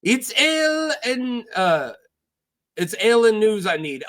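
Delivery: put-on pirate accent, starting high; lightly accented complaint; Salladhor Saan. Pirate complains to Davos, lightly accented. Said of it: "Sala complains".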